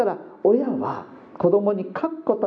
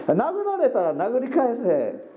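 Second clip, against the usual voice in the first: higher, slow, drilled command; father teaching his son, slow higher mock order; mock father's order; 7 semitones higher, slower than usual. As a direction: spell out a father's motto slowly. Father's motto, quoted.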